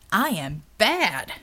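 slow, smug villain boast; a hint of a gloating giant villain. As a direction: savour every word of the brag.

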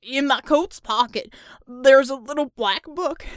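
hurt man building to a frantic yell; pained confession. Acted. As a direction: gasp and shout it out through pain. Tortured captive confesses in pain.

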